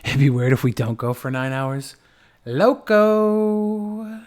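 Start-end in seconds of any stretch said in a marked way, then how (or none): 2.4-4.2 high squeaky loco; silly high loco. Pretend. Streamer tossing a goofy word, high. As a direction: squeak it out, toy-like. Playful repeated sound bite.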